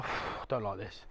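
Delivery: sigh, then soft and slow, uneasy; quietly uneasy about the steep drop; nervous. Real, not acted.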